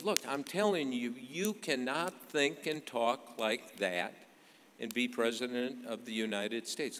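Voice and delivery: mildly heated, emphatic mock lecture; Clinton, intense. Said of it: "intense, kind of lamp throwing intense".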